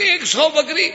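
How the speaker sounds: high incredulous question; can't believe his luck; a high, astonished "a hundred goats?"; amazed disbelief. Acted.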